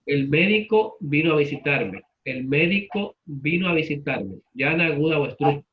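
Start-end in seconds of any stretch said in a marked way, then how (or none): 0.1-4.4 "médico" said MÉ-di-co, stress on MÉ; stress on the first syllable. Shown as a demonstration. Teacher giving third pronunciation, "médico" stressed on MÉ. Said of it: "Tercera pronunciación".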